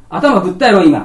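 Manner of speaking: put-on child telling the principal he hit his head; bossy child. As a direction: accuse like a fussy little kid.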